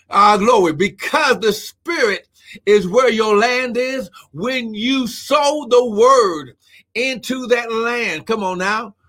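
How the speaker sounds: swelling preacher voice, words drawn out; preaching. Real, not acted. Preacher telling listeners to sow the word, preaching. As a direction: preach it out, stretching the key words.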